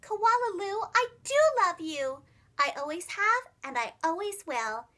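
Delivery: tender, heartfelt embrace; loving mother. Acted. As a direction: hold her and say it from the heart. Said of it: "flung her arms around her neck and said".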